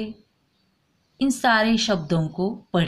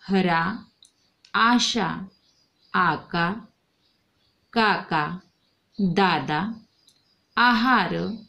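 model reading for the class; much slower than usual. Shown as a demonstration. Teacher reading two-letter and aa-vowel words to children, clear and measured. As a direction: read the list out word by word for children to follow. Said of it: "पढ़ो".

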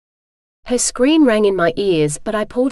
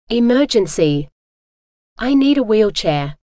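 bellowing; 4 dB louder than usual. A narrator's reading. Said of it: "I bellowed".

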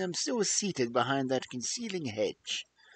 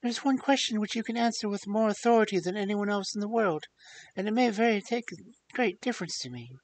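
panicked frantic pleading; 5 semitones higher than usual. Acted. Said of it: "in a pleading voice".

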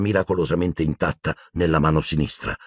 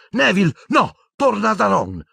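high, alarmed shout; high urgent order; urgent calling out; 3 dB louder than usual. Acted. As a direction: warn a friend off urgently. Harry calls out to Neville.

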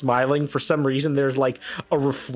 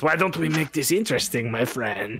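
tempting gambler. Acted. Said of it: "he says".

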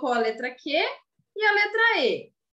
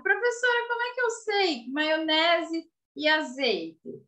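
pupil asking; 3 semitones higher than usual. Pretend. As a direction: call out "Professora" much higher, like a child raising a question. Teacher voices a pupil's question. (aluno perguntando, com voz bem mais aguda no começo)

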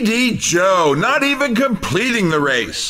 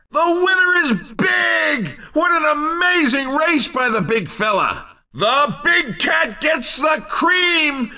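excited winner call; 5 semitones higher than usual. Acted. Race announcer calling the winner.

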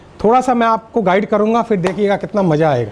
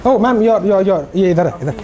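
stammering nervous; 2 semitones lower, slower than usual. Shown as a demonstration. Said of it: "if you enter like this".

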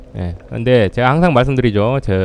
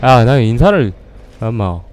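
normal talking voice

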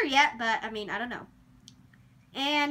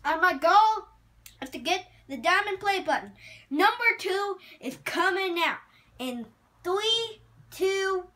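upbeat outro; 3 semitones higher, 4 dB louder than usual. Real, not acted.

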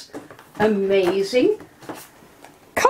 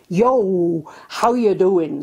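Wiltshire greeting; 5 semitones lower, much slower than usual. Retold or imitated. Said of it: "they'd say".

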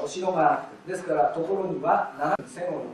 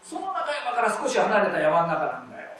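conversational. Shown as a demonstration. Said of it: "そこまで言いたいんです".

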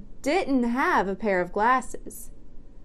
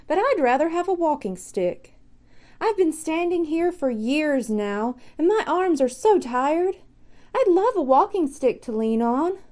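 a lightly voiced tired scarecrow, a bit higher; weary scarecrow; 4 semitones higher than usual. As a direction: sigh it out as the stiff, weary scarecrow. Scarecrow wishes for walking stick.

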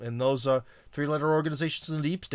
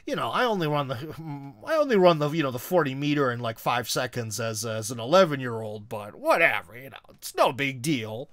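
humble brag. Acted. Host acting a parent bragging about a son, falsely modest. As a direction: play down the boast with showy false modesty. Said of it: "humble brags, you know, where they'll be like".

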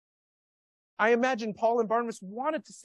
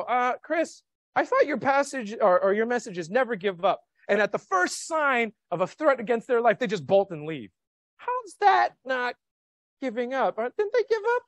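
higher, puzzled challenge from a listener; sceptical objection; 4 semitones higher, 4 dB louder than usual. Pretend. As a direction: push back like a doubting churchgoer. Imagined listener objects to preacher.

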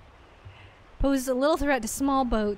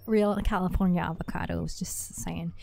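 lightly voiced Valley Girl guard captain, louder; 2 semitones higher, 6 dB louder than usual. Game master voicing the bridge captain as a Valley Girl. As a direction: play up a California Valley Girl lilt. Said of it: "Valley Girl".

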